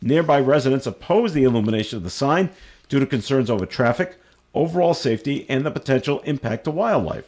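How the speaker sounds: reading a news item aloud. Real, not acted. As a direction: read it out like a radio news story.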